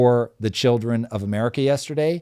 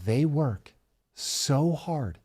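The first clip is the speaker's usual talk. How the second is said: put-on Chinese accent; 2 semitones higher, 7 dB quieter, much slower than usual. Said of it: "imagine all of that with a Chinese accent".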